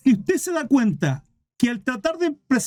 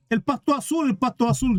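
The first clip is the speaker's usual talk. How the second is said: shouting donkey, mock; 4 semitones higher than usual. Donkey insisting to the tiger, high-pitched mock shouting. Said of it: "gritaba el burro".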